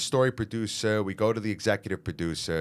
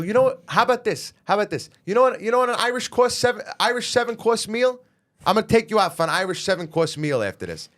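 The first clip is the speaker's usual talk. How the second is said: much higher, louder, fast heated rant; pissed-off retort; 12 semitones higher, 5 dB louder than usual. Retold or imitated. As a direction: tear into the producer, mocking. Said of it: "I got pissed off".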